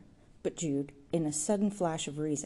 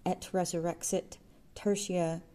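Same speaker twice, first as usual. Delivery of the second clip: steady declaiming. A narrator's reading. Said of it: "declaimed steadily ahead".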